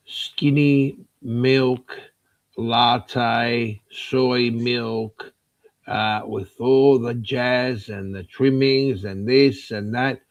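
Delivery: slow, drawn-out coffee order; mocking fussy order. Customer ahead in the coffee queue ordering, mockingly drawn out. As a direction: stretch out each item, fed up.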